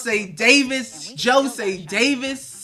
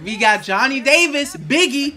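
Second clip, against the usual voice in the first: hype; 4 semitones higher, 6 dB louder than usual. Real, not acted. Hyped as the Wizards' pick arrives.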